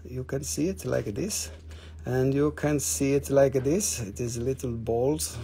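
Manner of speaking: playful mock English accent; put-on English accent. Seller showing little balls on a stone, mock English accent. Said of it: "if you're talking in your English accent".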